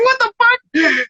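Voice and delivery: very high, drawn-out mock disbelief; retold astonishment. Rapper stunned by the judge's praise, high drawn-out disbelief. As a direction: stretch it out slowly in a squeaky-high register.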